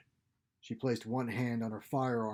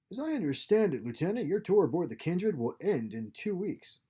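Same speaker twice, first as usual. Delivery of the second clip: captain's higher, louder pointed reminder; lightly voiced captain, pointed; 7 semitones higher, 4 dB louder than usual. Captain reminds his lieutenant about his tour, pointed and commanding. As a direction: press the point as a superior officer, pitched up.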